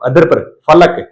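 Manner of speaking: फलक with teeth on lip, f; f sound. Shown as a demonstration. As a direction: say फलक as falak, f. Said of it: "ऊपर वाले दांत नीचे वाले होठों पर".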